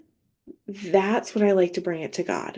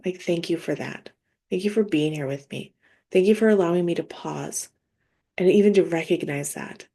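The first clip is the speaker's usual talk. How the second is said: calm prayer. Shown as a demonstration. Believer thanking God after calming down, calm. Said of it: "the part where we're calmed down".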